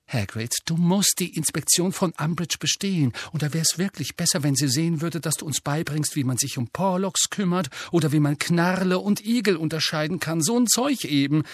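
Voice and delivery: earnest Hermione. Acted. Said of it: "sagte Hermine ernst".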